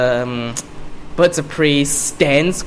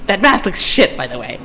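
put-on botched New York-British accent; Harley Quinn; 2 semitones higher than usual. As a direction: throw the insult away lightly. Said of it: "That was a shitty Harley Quinn impression".

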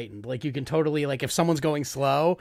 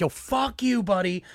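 mock yell; 6 semitones higher, slower than usual. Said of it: "So I just started being like".

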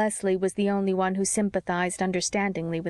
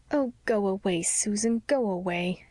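forlornly. Acted. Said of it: "said Anne forlornly".

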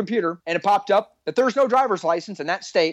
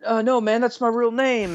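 higher-pitched mock nervous protest; 6 semitones higher than usual. Officer imitates suspect insisting on his name, nervously. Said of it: "he's, like, getting nervous".

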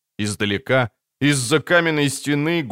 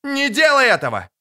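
desperate cry; 14 semitones higher than usual. Acted. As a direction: scream at her to stop. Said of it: "отчаянно крикнула Трис".

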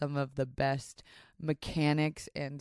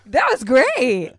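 Hades impression; 9 semitones higher, 13 dB louder, much slower than usual. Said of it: "Hades had a voice".

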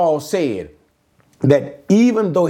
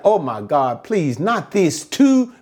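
imagined plea to God; pleading; 2 semitones higher than usual. Acted. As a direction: plead in dismay, slowing and rising at the end. Acting Paul's plea to God.

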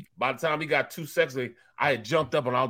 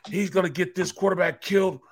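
raised, higher mock rant at the rookie; retold angry yelling; 5 semitones higher, 3 dB louder than usual. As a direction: imitate a coworker yelling about the rookie. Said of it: "he started yelling".

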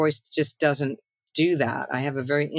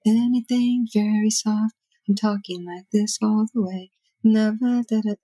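French lounge singer voice; 5 semitones higher than usual. Shown as a demonstration. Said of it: "a French, French lounge singer".

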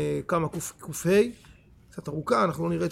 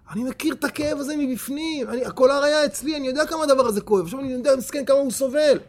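acted crying out; 5 semitones higher than usual. Freed prisoner sees another man collared, crying out. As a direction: cry out in pitched-up sympathy for a sufferer. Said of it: "התחיל לצעוק".

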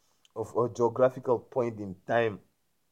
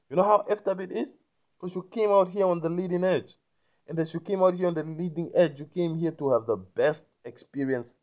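high, loud and fast, building indignation; fired up rant; 6 semitones higher, 4 dB louder than usual. Real, not acted. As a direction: preach it with rising passion. Passionate rant to listener.

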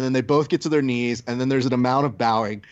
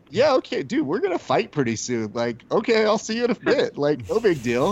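Rich; 5 semitones higher than usual. Retold or imitated. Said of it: "and Rich just goes".

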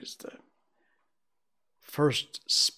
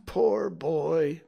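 raised, excited sympathy; between laughing and crying; 6 semitones higher, 5 dB louder than usual. A narrator's reading. Scrooge exclaiming over the solitary child, moved and excited. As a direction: exclaim it fondly, still carried away. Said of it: "between laughing and crying".

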